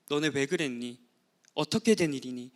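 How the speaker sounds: soft, tender asking, not scolding; gentle questioning. Acted. God gently asking Adam and Eve what happened, soft and tender. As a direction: ask it kindly like a patient parent.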